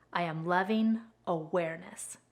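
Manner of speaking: "loving" held, then "awareness" set apart softly; soft and measured, leaning on "loving", then "awareness" on its own; stress within mantra. Retold or imitated. Quoting a favorite mantra for viewers, measured stress on "loving" and "awareness". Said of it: "he puts the emphasis on different words".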